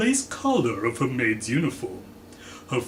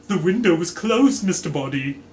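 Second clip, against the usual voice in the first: stammering; 6 semitones higher, 5 dB louder than usual. Acted. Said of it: "Missus White stammered".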